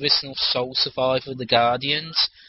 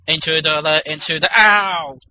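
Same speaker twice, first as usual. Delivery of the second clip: alarm shout; 3 semitones higher, 5 dB louder than usual. Retold or imitated. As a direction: blare it like an alarm.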